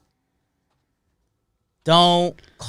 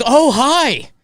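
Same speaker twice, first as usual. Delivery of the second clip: high, chirpy operator greeting; dispatcher voice; 12 semitones higher, 7 dB louder than usual. Retold or imitated. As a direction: play the cheery dispatcher.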